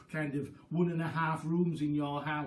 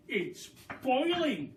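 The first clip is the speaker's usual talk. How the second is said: high, drawn-out excited cry; 7 semitones higher, slower than usual. Acted. Mister Cranky watching the pot boil, high and thrilled. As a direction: marvel at the pot, stretching it out. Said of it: "cried Mister Cranky".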